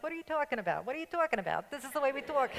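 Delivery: a playful hint of a New Yorker insisting they have no accent; mock New York indignation. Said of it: "a slight New York accent".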